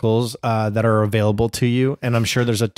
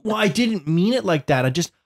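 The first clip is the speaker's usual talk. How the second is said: higher, lightly voiced excusing child; daughter's excuse; 4 semitones higher than usual. Dad imitating daughter making excuses in a higher voice. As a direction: plead like a kid backpedaling.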